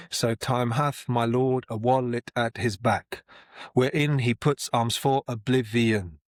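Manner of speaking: slow, measured Shakespeare verse; verse recital. Shown as a demonstration. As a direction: read it out like a stage actor. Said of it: "I would maybe even exaggerate it when I'm reading it and performing it".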